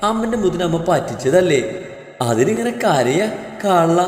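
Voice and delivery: put-on mother's singsong baby talk; teasing, tender coaxing with swooping tune; cooing. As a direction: coo to comfort a fussing baby. Mother soothing fake-crying baby.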